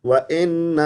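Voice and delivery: وَإِنَّ said with an "e" sound, the wrong way; common mistake. Shown as a demonstration. Teacher demonstrates the common wrong وَإِنَّ. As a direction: mispronounce وَإِنَّ with an "e" vowel. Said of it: "اے کے ساتھ پڑھتے ہیں، اے نہیں پڑھنا".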